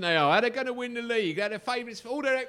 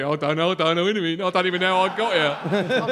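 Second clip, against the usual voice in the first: lightly voiced baffled manager, louder; mock clueless manager; 6 dB louder than usual. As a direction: play the clueless manager for laughs. Imitating confused Redknapp.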